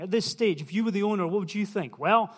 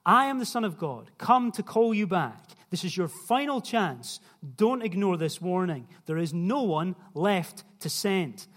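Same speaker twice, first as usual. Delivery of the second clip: voicing Jesus warning. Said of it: "But Jesus is saying".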